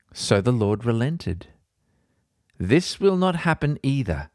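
measured, earnest Bible reading; podcast host reading scripture aloud. Acted. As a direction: read the chapter with gravity. Reads Bible chapter aloud.

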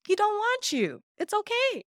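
teasing sing-song pity; mocking sing-song. Real, not acted. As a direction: croon it like fake sympathy. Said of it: "repeated mockingly".

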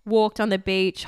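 slow hushed whisper on walked. Real, not acted. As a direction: breathe it unvoiced so the dogs won't hear. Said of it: "Oh, fuck, I've said it".

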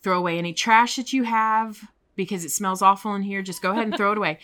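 director's wake-up call; boss calling out. Retold or imitated. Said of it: "wakes everybody up and says".

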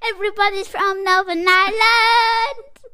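loud, high singsong mock Northern Irish; mock Northern Irish accent. Child playfully imitating the accent.

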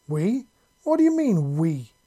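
high, loud alarmed cry; alarmed yell. A narrator's reading. Raider realizing others are coming, alarmed high yell. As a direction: yelp it in alarm. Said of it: "the skinny man yelled".

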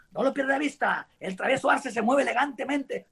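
lightly voiced boxing commentator; a hint of ringside announcer; imagined fight commentary. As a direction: narrate your own fight with a touch of ceremony. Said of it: "a narrarla".

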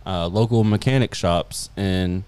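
slow, drawn-out alien voice. Acted. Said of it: "I guess I can talk in my alien voice".

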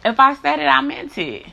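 real forceful point; emphatic insistence. Real, not acted. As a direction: land it hard and firm.

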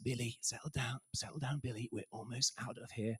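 near-whispered, restrained settling down; very low voice. Retold or imitated. Dad keeping his cool while kid screams, very hushed. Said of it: "in a very low voice".

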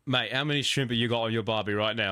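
put-on Aussie mate voice; Australian accent. Joking with co-host about shrimp on the barbie, Australian accent. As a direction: lay on a playful Australian accent. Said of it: "if I do an Australian accent".

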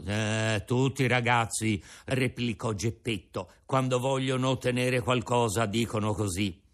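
put-on an old father offering his breakfast; old Geppetto. Geppetto doubts.

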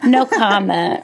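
slow, laughing stoned delivery. Real, not acted. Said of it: "Why am I talking like this?".

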